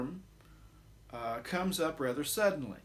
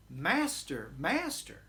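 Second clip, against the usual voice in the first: mild urgent fear; slower than usual. Acted. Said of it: "capture their sense of urgency and perhaps their fear".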